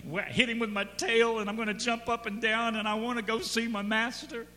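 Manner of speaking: lightly acted dog bubbling with anticipation; eager dog. Dog heads to heaven to see master, mildly excited. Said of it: "Dogs go to heaven going".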